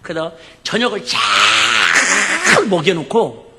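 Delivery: ordinary talk, nothing marked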